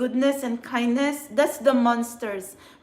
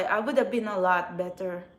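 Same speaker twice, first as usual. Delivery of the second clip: softer, choked-up retry of the same line; fighting back tears; 5 semitones lower, 5 dB quieter than usual. Real, not acted. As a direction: hold the tears in and say it quietly. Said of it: "I don't wanna cry".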